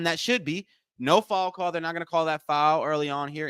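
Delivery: running commentary that builds; live play-by-play. Real, not acted. Host calling a steal and layup, building play-by-play. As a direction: rise excitedly toward the layup.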